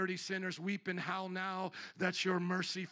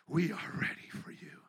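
whisper; 2 semitones lower than usual. Real, not acted. Repeated prayer line, whispered.

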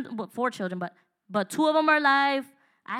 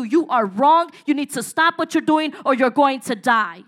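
stern rebuke; 7 dB louder than usual. Acted. God's love rebuking, preached.

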